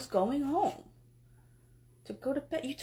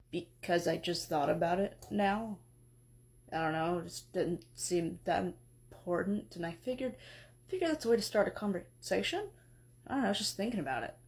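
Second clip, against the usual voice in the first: a lightly lowered, drowsy husband voice; sleepy Hephaestus; 6 semitones lower than usual. Acted. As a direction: mumble it like you just woke up. Hephaestus explains himself.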